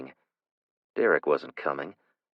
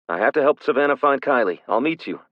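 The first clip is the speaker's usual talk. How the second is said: urgent man; 7 semitones higher, 6 dB louder than usual. Acted. Man hurrying.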